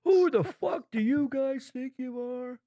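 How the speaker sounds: mock threat. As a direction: draw out a hammed-up challenge. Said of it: "if there were threats back and forth".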